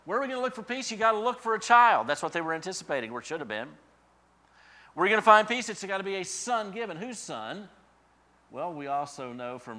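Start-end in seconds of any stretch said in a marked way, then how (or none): 0.1-2.1 much higher and louder, rising call; preaching at full force. Real, not acted. Preacher raising voice. 4.9-7.7 much higher and louder, rising call; preaching at full force. Real, not acted. Preacher raising voice.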